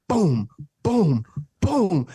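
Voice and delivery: heavy, spaced-out booms; imitated door kicks. Storyteller acting out nonstop door kicking, emphatic booms. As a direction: sound out each kick on the door. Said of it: "Spartan kicking the door".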